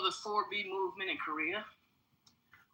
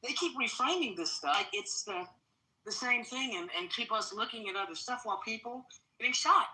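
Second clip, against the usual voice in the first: talking mid-workout at the gym; slightly winded between reps; while exercising; 5 semitones higher than usual. Real, not acted. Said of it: "I'm at the gym".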